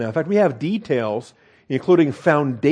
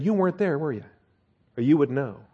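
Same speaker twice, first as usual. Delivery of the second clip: rebuking. Acted. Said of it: "the Lord rebuking Job".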